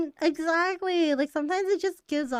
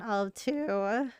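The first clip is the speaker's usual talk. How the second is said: voice cracking; 3 dB quieter than usual. Real, not acted. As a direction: voice cracks mid-sentence. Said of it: "oh my god, my voice cracked".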